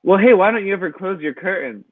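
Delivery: mildly defensive practice comeback; role-play comeback. Pretend. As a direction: answer the accuser back in a rehearsal. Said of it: "And you're gonna say".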